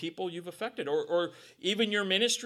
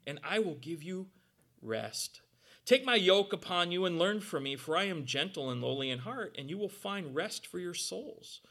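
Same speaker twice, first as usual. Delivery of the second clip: gentle Jesus; 3 semitones lower than usual. Acted. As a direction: speak it gently to the weary. Quoting Jesus' comfort.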